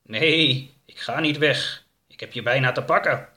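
mildly voiced threatening monster; menacing creature. Creature threatens the fleeing woman.

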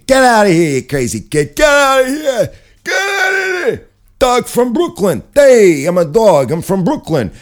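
loud, high-pitched wisecracking New York dog; brash Brooklyn dog. Acted. Brooklyn dog cracking jokes over here, brash and hammed-up. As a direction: holler like a hammed-up Brooklyn comic.

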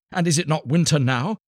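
high, sharp retort; bitter wife. A narrator's reading. Wife retorting to her husband about sparrows, high and scornful. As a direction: throw it back at him scornfully.

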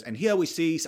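a hint of a bad Australian accent; half-hearted go at an Australian accent; attempted Australian accent. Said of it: "puts on an Australian accent".

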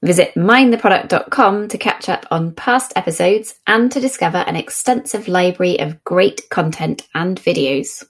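lightly polished presenter's read; podcast sponsor read. Acted. Host introduces the podcast's sponsor to listeners, announcer read. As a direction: deliver it as a show intro.

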